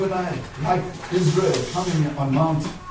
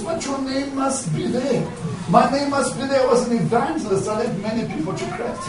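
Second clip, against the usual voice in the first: higher-pitched, mildly pleading insistence; insistent protest; 5 semitones higher than usual. Acted. Evangelist pleading with the recording angel, insistent protest. Daniel Curry protests at the gates.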